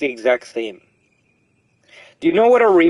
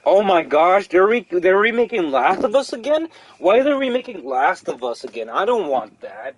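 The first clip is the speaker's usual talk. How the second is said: overdone whiny fan; dramatic whiny complaint; 4 semitones higher than usual. Retold or imitated. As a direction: whine it like a hater. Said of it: "I was very dramatic".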